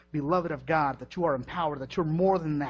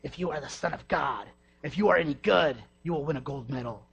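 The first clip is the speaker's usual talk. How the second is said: voice of Satan. Acted. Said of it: "I heard the voice of Satan".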